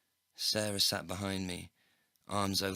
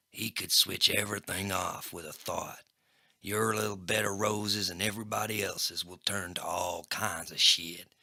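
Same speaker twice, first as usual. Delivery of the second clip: menacing gangster; 3 dB louder than usual. Acted. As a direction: let the threat hang. Crackjaw threatening Sarah.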